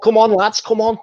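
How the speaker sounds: high, loud Scouse rallying call; rally the lads in a Scouse accent; Scouse captain shout. Retold or imitated. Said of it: "Did you perfect that Scouse impression".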